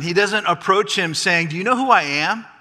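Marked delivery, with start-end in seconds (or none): 1.5-2.5 loud, higher, affronted protest; indignant entitlement. Acted. Grandson demanding respect from the king, indignant. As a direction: act out an entitled grandson taking offence. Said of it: "claiming entitlement".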